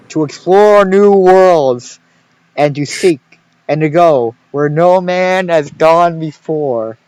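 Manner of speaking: slow, grand announcer voice quoting the show; Star Trek intro. Retold or imitated. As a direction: intone it like the opening of a space series. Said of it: "clip the fucking intro of Star Trek".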